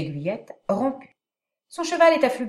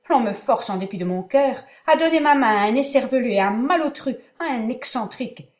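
indignée; 4 semitones higher, 4 dB louder than usual. Acted. Catarina outragée par le fiancé absent.

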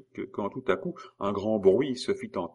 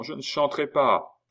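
put-on high child voice, defiant; child's refusal; 7 semitones higher, 3 dB louder than usual. A narrator's reading. Royal child refusing to sing, high child's voice. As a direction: say it as a stubborn child, pitched up. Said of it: "dit l'enfant".

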